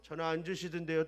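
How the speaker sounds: sulky complaint. Retold or imitated. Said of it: "또 이렇게 나온 거예요, 마음으로".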